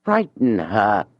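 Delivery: slow, savoured, pleased with himself; drawn out like a motto he is proud of; proud repetition. Acted. Julien alone, repeating his plan slowly and proudly. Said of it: "he went on repeating proudly".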